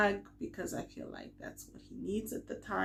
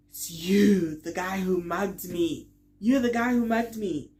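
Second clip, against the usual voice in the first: retold shocked recognition; 2 semitones higher, 10 dB louder than usual. Recognising the mugger.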